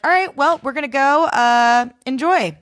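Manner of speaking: imitating a frenetic, chaotic guy. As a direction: play the host all twitchy and scattered. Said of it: "his energy was, like, very frenetic and chaotic".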